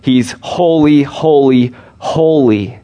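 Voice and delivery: each holy on a falling tune, the first holy loudest; threefold holy. Shown as a demonstration. Preacher stressing God's holiness to the congregation with solemn emphasis. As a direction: build solemn weight on holy, holy, holy. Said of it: "God's not just holy".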